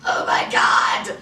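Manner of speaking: overwhelmed with fake swooning; hammed-up teary shock; mock gushing girlfriend. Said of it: "she's like".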